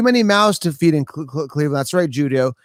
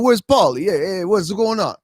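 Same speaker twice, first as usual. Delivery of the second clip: movie boxer calling out for a friend; put-on boxer's holler, easing off; Rocky. Streamer repeating a viewer's question, Rocky impression. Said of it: "my Rocky impression".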